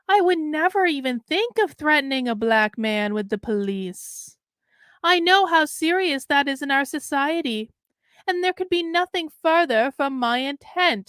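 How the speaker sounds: put-on Southern accent, pitch lifting as it goes; mock-earnest quote in a Southern accent. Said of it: "I don't know why I have a Southern accent".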